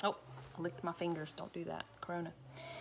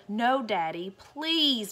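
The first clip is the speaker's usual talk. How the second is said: put-on begging children; 3 dB louder, much slower than usual. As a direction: beg Daddy to keep the dog. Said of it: "begged Betty and Billy".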